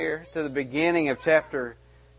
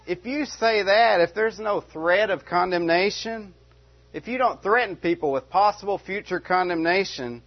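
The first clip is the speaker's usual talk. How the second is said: raised pitch, protesting objector; acted objection; 5 semitones higher than usual. Objector warning Paul about his teaching, protesting. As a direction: argue back as a worried challenger.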